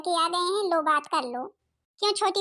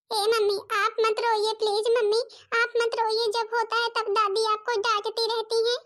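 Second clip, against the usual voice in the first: put-on higher child voice, gently pleading; little girl comforting; 4 semitones higher than usual. Little daughter begging her crying mother to stop, in a higher child's voice. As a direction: soothe mummy like a small daughter.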